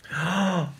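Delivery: gasp. Retold or imitated. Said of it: "I laid on the sofa after that going".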